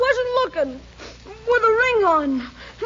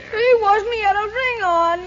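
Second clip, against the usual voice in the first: crying. Acted. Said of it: "I found him walking along the rain crying".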